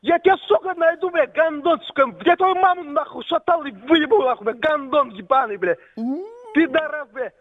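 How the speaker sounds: high, raging threats; furious shouting. Real, not acted. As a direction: yell it in fury. Furious threats in phone quarrel.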